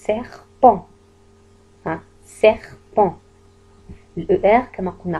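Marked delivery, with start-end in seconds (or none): 0.1-0.8 Serpent said loud, S crisp at the start; model word, clearly pronounced. Shown as a demonstration. Teacher sounding out a word for pupils, loud and clear. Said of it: "في بداية الكلمة serpent". 2.4-3.1 serpent said loud with a clear S; model word repeated. Shown as a demonstration. Teacher repeats the word for pupils, loud and clear. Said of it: "في بداية الكلمة serpent".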